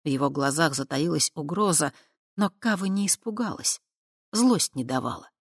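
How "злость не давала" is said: ordinary delivery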